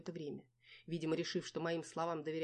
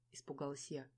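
usual speaking voice

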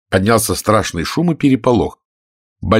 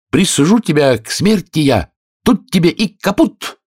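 high gloating verdict rising to caput; cat triumphantly sentences mouse; 10 semitones higher, 3 dB louder than usual. Acted. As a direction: sentence her with glee. Cat pronounces death sentence.

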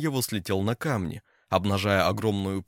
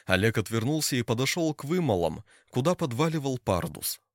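usual speaking voice

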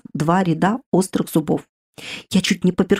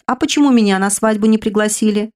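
higher, louder stern demand; stern question; 4 semitones higher, 3 dB louder than usual. Acted. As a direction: pretend offence at no invite. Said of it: "вопросил строго". (строго, с обидой)

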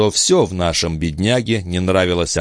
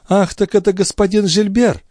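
put-on high, airy young lady's voice; carefree tone; 14 semitones higher than usual. A narrator's reading. Haughty girl greets Gilbert with feigned carelessness. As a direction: toss it off lightly, as if unconcerned. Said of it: "беззаботным тоном".

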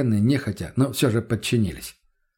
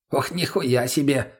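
perked up; slower than usual. Acted. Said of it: "оживился Мутный".

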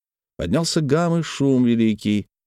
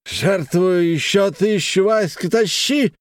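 high, slow, drawn-out bark; high slow bark of a drunk merchant; 9 semitones higher, slower than usual. A narrator's reading. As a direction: bellow the donation slowly. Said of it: "гаркнул".

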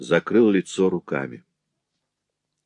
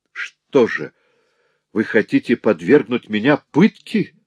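exclaiming; 4 semitones higher, 4 dB louder than usual. Acted. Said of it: "воскликнул Грамотей".

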